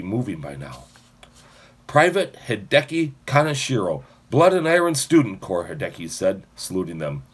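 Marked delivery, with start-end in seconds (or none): 1.9-5.7 loud, crisp military report; formal report. Acted. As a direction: report like a soldier saluting. Formal salute introduction.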